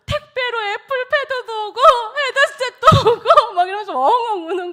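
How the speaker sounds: mother laughing as she recalls the call. Real, not acted. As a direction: tell it while laughing at the memory. Recalling son's tearful call.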